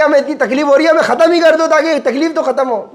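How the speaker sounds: high-pitched mock plea of someone in torment; acted plea. Sufferer in hell begging to be finished off, acted pleading. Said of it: "وہ کہے گا کہ".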